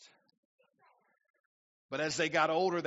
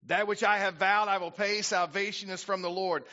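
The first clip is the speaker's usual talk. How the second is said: preached vow; 6 semitones higher, 7 dB louder than usual. Acted. Jonah's vow preached loudly.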